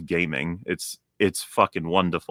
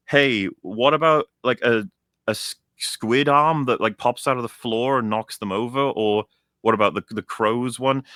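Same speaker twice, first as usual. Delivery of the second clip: mock pitch meeting; 3 semitones higher than usual. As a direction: pitch silly ideas like a clueless designer. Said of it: "BioShock Infinite was like".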